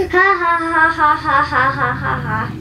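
sing-song villain giggle; gleeful giggle. Acted. Principal giggling with glee at the boys. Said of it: "giggled with glee".

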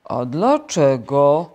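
very slow, loud, drawn-out turtle. A narrator's reading. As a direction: stretch the question out sluggishly. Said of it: "zapytał żółw".

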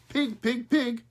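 high, loud squawky call; crow calling pigs. A narrator's reading. Crow calls the pigs in, high squawk. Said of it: "called Smokey".

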